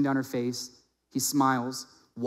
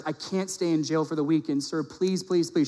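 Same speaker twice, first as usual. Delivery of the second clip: lightly acted plea with raised, repeated pleases; mock begging; 3 semitones higher than usual. College girl begs officer for a judge, lightly pleading. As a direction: plead as the girl, without full hysteria. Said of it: "She's begging and begging".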